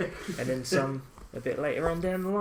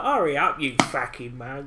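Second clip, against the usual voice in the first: put-on East London accent; 6 dB louder than usual. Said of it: "an English mod of that".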